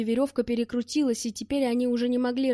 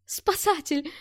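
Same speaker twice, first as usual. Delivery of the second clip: excited shout; 4 semitones higher, slower than usual. Acted. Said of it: "крикнул Гушков".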